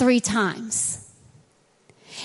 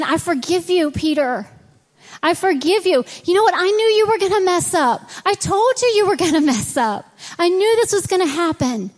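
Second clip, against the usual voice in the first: rising, eager higher voice of Jesus; forgiving Jesus; 5 semitones higher than usual. Retold or imitated. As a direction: build up with joy as you forgive.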